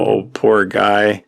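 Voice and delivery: slow, drawn-out mock sympathy; imitating a kid's slow, sarcastic pity for the guy. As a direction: stretch it out as fake pity. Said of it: "in a tone of voice like".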